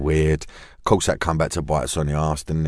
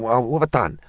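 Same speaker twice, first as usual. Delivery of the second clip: baffled, climbing higher and higher in pitch; incredulous protest, rising higher; 6 semitones higher than usual. Retold or imitated. Protesting innocence to angry Sean Bean, incredulous and rising. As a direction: push your disbelief up as it builds.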